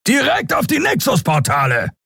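shouting. A narrator's reading. Sron shouting to crew.

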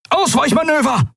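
hoch und laut gerufenes Kommando; gerufener Befehl. Acted. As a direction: ruf das Ausweichen scharf über die Brücke. Befehl im Luftkampf. (hoher, lauter Befehlsruf)

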